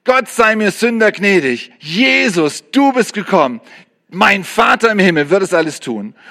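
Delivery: a lightly voiced new believer's plea; child's simple prayer. Preacher voicing the new believer's first prayer, lightly. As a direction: pray it simply, like a beginner. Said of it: "Du fängst an und weißt nichts anderes, außer".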